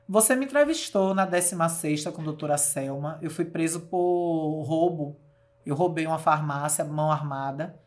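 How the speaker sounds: lightly voiced grim man, low and heavy; ominous tone. Ex-prisoner confronting the reporter in a supermarket, low and ominous. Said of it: "falou num tom assim tenebroso".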